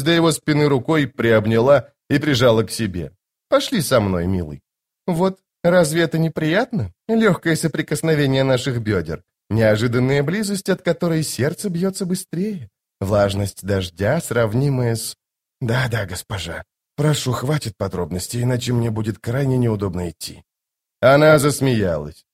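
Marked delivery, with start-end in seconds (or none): 3.5-15.2 lightly voiced seductive lady; coy, lingering, slowing at the end; flirtatious sorceress. Voices Lady Envy teasing Tok. 15.6-20.4 subdued, lightly voiced protest; a touch of embarrassed discomfort; uncomfortable male companion. Voices Tok in dialogue.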